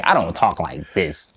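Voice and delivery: slowed down, even and relaxed; slow, calm monotone. Shown as a demonstration. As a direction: ease off and let each word land slowly. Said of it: "talk in a very monotone, relaxed way".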